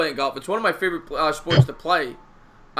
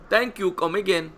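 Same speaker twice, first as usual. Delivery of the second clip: lightly voiced shopkeeper catchphrase; a hint of a shop-counter voice; mock shopkeeper voice; 2 semitones higher than usual. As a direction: repeat the line as a put-on cashier. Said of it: "he liked that one".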